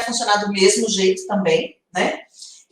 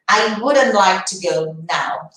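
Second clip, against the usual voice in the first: each word spaced out for the class; slow careful model; 2 semitones lower, much slower than usual. Shown as a demonstration. Teacher modelling for students, very slow. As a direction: slowly lay out "I wouldn't like to go now". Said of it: "teacher models the sentence slowly".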